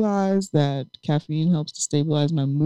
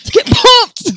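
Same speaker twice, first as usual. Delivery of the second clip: even higher hyped shout; energy drink ad; 10 dB louder than usual. Real, not acted. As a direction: scream it like a hype ad. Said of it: "Well, Jay's pumped".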